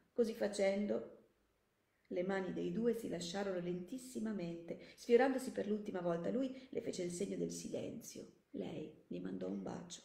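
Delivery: measured audiobook narration; composed narrator, phrase by phrase; story narration. A narrator's reading. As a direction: read the story aloud with care.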